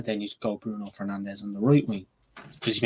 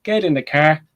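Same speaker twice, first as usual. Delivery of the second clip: mock-bold reply, pitched up and louder; hammed-up brush-off, higher and louder; confident Ten Hag comeback, higher and louder; 7 semitones higher, 6 dB louder than usual. Ten Hag answers Pep's taunt before the race, higher and louder. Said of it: "And Ten Hag just says".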